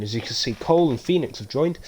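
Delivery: put-on Irish turning American mid-sentence; Irish into American accent. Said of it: "I went Irish and then into an American accent".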